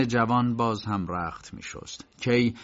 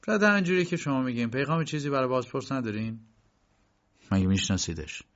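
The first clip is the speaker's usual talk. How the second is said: confused; 3 semitones higher, faster than usual. Acted. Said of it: "با گیجی گفت".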